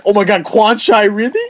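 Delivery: a hint of giddy fan; drunk fan. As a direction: squeal the name like a giddy drunk. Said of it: "they're like".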